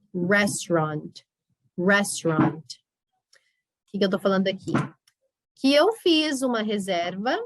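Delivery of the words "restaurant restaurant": Restaurant said slowly, as rest-rant with two syllables; pronunciation drill. Shown as a demonstration. Teacher drills Restaurant slowly for students. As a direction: model Restaurant clearly for repetition.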